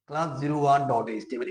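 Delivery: slow, spaced-out filename; careful, deliberate dictation. Shown as a demonstration. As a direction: spell it out slowly for beginners. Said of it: "কথাগুলো একটু আস্তে আস্তে বলতেছি".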